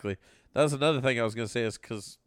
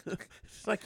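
ordinary talk

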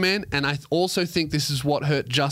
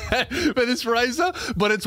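words squeezed through a laugh; 12 semitones higher than usual. Real, not acted. Host cracking himself up over his razor joke, laughing. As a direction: giggle out the end of the line.

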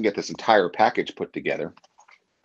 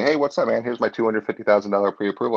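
breezy, higher-pitched buyer's pitch; imitated eager buyer; 4 semitones higher than usual. Embarrassed buyer turns to another agent, imitated breezy eagerness.

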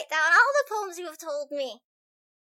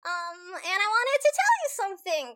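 put-on child's speech; 8 semitones higher than usual. Ro's speech from atop a chair.

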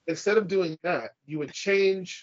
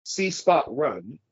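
slow reading; much slower than usual. Shown as a demonstration. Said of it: "if I translated that into Japanese".

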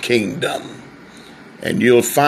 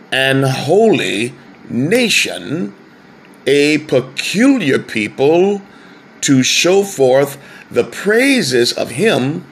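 measured, rising scripture recitation; scripture reading. Acted. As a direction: read the verse out with weight. Reads scripture in preaching cadence.

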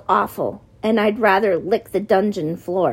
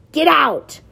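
sharp, higher shouted order; commanding; 6 semitones higher, 4 dB louder than usual. A narrator's reading. Mott ordering Cregan out, a sharp shout. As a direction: throw him out with one word. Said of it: "Mott commanded".

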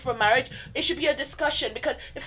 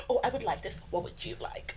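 soft gentle ask; 3 semitones lower, 10 dB quieter than usual. Shown as a demonstration. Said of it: "Be like".

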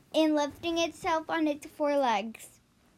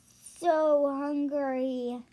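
slow hissing dragon; much slower than usual. Acted. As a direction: drag it out like a hungry dragon. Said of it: "the dragon hissed".

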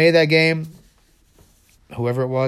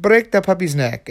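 higher put-on doctor voice; commanding evil doctor; 5 semitones higher than usual. Doctor orders child to harm puppy, commanding.

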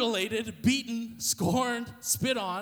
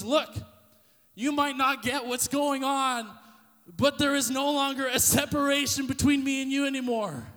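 tender plea; 4 semitones higher, 4 dB louder than usual. Retold or imitated. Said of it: "what the Father was saying was".

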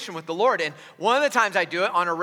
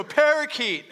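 mock mumbled answer; 5 semitones higher, slower than usual. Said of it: "two voices go".

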